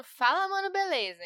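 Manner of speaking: podcast greeting. Retold or imitated. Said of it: "só sei começar falando".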